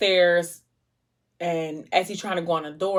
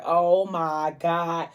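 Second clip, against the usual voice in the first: breathless dread. Retold or imitated. Reader dreading what the character will do. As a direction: gasp it out as if holding your breath. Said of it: "I was holding my breath like".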